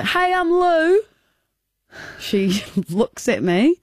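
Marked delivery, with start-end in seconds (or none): 0.0-1.0 high, eager hello; friendly introduction. Retold or imitated. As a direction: introduce yourself hoping for a hug. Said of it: "goes in for a hug".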